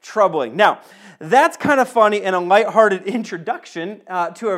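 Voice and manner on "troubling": put-on kid's protest. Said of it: "I was like".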